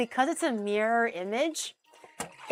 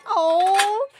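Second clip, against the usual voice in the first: sudden high, loud oh; startled little oh; surprised oh; 9 semitones higher, 8 dB louder than usual. Retold or imitated. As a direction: gasp out a shocked oh. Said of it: "I was like".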